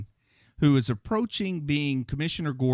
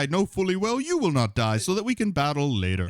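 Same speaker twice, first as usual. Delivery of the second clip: villain line. Retold or imitated. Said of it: "too on the nose".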